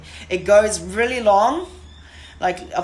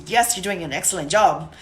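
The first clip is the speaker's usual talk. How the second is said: happier tone. Shown as a demonstration. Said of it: "my voice is a bit changing because my tone is a bit more happier".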